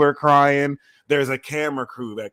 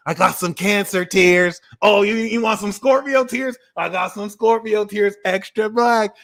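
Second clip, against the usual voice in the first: tear dealer; 4 semitones higher than usual. Acted. Playing black-market tear dealer.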